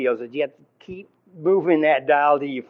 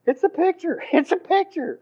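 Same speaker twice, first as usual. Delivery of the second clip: high, loud mock shout; yelling back in exasperation; insistent hammed-up retort; Zwingli shouting back; 3 dB louder than usual. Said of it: "And Zwingli's going".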